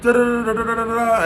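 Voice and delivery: high, pleading mock girlfriend voice. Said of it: "So she's like".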